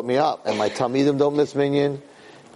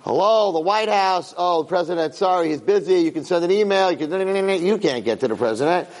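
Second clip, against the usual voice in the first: lightly voiced switchboard brush-off, a bit higher; White House operator; 4 semitones higher than usual. Rabbi acting out a call to the president, mock operator. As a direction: put on a hint of an official operator. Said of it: "He tries to call the president".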